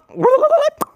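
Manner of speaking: high trilled whooshing sound; vocal sound effect, high and rolling; imitated elevator noise. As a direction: make a silly high ride noise.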